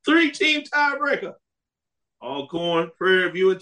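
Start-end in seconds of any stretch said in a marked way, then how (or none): 0.0-1.3 laughing. Real, not acted. Host moving on to the next scenario while still laughing. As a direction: still laughing, much higher.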